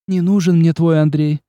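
sharp, clipped-off flare; flaring up. A narrator's reading. Olga snapping at the prince, sharp. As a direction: bite off each word in sudden anger. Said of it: "резко вспылив, отчеканила она".

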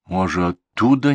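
unsure, tentative question; grandma hesitantly guessing. Acted. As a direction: offer it timidly. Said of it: "нерешительно произнесла баба Дуня".

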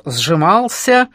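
slow, measured poetic chant; mock-solemn rhythmic recital; singsong declamation. A narrator's reading. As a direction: intone it like verse, stretching words. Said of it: "продекламировал он нараспев".

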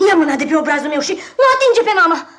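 angry protest. Acted. Boy pushes away stranger.

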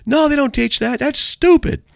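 high-pitched mock yell; imitated yelling. Truck driver dismissing the preacher, imitated yelling. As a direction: act out a dismissive heckler calling out. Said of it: "he's yelling at me".

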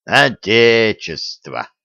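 slow, slurred and careless; drunken careless. Acted. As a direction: drawl it out drunk and offhand. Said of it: "небрежно махнул лапой оборотень".

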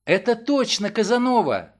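loud, happy cry with a smile; joyful exclamation. Acted. Ellen joyfully recognises the parrot with a smile. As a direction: smile through the words. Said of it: "воскликнула с радостной улыбкой".

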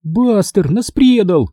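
high, drawn-out lament; disappointed girl. A narrator's reading. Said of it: "разочарованно промолвила Минди". (разочарованный голос девочки)

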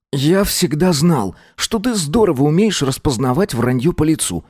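lightly voiced curious sidekick; partner voice. A narrator's reading.

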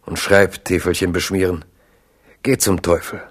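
a light man's voice behind the queen mother's mask; Agrippa's voice in disguise. Acted. Disguised figure scolds drunken Biron, lightly voiced and mocking. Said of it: "hat aber die Stimme von Agrippa d'Aubigné".

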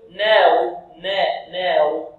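"نار" with the a tilted toward e, like "neer"; fronted vowel, mistaken. Shown as a demonstration. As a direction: imitate a student tilting the vowel of "نار" toward e. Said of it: "يقلل أو يميل هذه النون". (نطق خاطئ بإمالة فتحة النون في "نار")

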